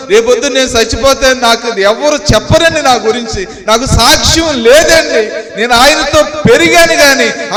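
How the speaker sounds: anguished lament. Retold or imitated. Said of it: "గుండ్లు బాదుకుని ఎడుతున్నాడంటే".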